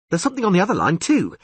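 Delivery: put-on high, eager, excitable young bard; excited bard voice. Dandelion marvels at the huge catfish, high and excited.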